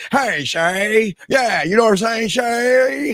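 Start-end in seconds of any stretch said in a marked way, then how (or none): 0.1-1.1 mock old-time 1950s movie gangster talk. Mocking how someone talks to a woman: imitating an old-time movie gangster. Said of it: "I would talk to a woman like this".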